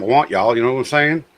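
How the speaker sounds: brisk, light Texas accent; casual Texan twang, quickly. Shown as a demonstration. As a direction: slip easily into a Texas accent. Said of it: "I can fall into my Texas accent".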